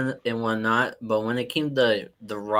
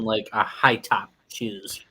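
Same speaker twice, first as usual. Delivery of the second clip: whisper; 4 semitones lower, slower than usual. Real, not acted. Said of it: "whispered aside".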